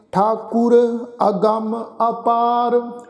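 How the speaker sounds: slow, measured chanting of the verse; scripture recitation. Shown as a demonstration. Sikh teacher recites Gurbani for the congregation, slow and measured. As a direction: recite each phrase slowly and reverently.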